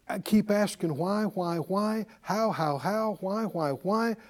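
mock fretful mumble. Mocking anxious looping question.

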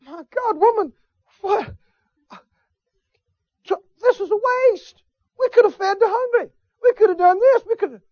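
high-pitched mock outrage; mock indignant complaint. Preacher mocking the complainer over the perfume, high and indignant. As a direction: whine about the waste in an indignant voice. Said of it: "Did Jesus look at her and say".

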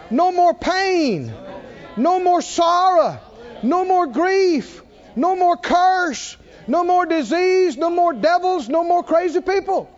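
high, loud, rising preacher's cry; preaching at full force. Acted. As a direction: proclaim it to the whole church.

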